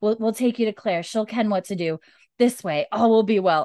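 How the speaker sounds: put-on retelling Jamie in a mild Scots accent; soothing a dying friend in Scots; Jamie's Scottish voice. Jamie voiced in retold scene.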